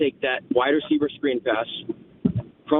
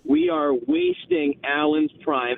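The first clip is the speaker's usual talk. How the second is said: real exasperation, drawn out on the complaint; frustrated; 2 semitones higher, slower than usual. Real, not acted. Caller venting to the radio host about his team, frustrated. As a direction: vent it slowly and emphatically. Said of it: "beyond frustrating".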